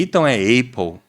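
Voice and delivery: Apple with a Portuguese A; wrong Apple. Shown as a demonstration. Teacher mocking the student's Portuguese Apple. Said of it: "Aí você fala".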